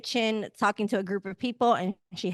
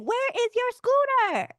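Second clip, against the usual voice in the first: much higher, slow, drawn-out sassy demand; Nene Leakes impression; 13 semitones higher, 4 dB louder than usual. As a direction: do a hammed-up diva demand, stretch every word. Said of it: "like Nene Leakes when she's like".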